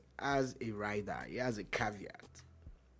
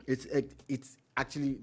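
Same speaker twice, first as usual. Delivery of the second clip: stuttering, tripping over words; stammering. Real, not acted. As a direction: stumble on the first words. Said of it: "I'm st-, stammering now".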